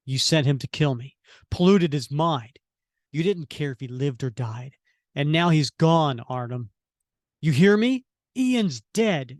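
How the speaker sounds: an accusing, rising hero's anger; angry hero. Acted. Cap confronting Zola over Ian, lightly acted anger. Reading Cap's grieving outburst.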